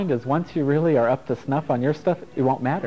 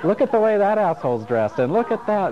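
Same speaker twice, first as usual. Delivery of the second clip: higher-pitched mock disapproval of a stranger; mock judgmental; 7 semitones higher than usual. Traveler judging strangers at the airport, mock judgmental. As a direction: judge passersby, pitched up.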